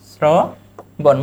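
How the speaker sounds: শ্রবণ drawn out very slowly; slow pronunciation demo. Shown as a demonstration. Teacher showing students শ্রবণ, very slow. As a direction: stretch শ্রবণ for the class. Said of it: "এই যে".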